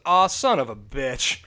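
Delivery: drawn-out weary curse, not even upset; Jim Ross. Retold or imitated. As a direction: swear slowly in tired disappointment. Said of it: "not even upset".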